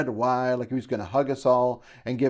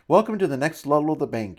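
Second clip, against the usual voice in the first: quick, louder, higher warm greeting; warm welcome; 5 semitones higher, 6 dB louder, faster than usual. A narrator's reading. Bank avatar welcoming clients to next level, warmly. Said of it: "he said warmly".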